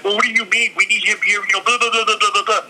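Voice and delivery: lightly voiced panicking producer; panicked boss. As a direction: rattle it off like a flustered producer. Boss Keith freaking out.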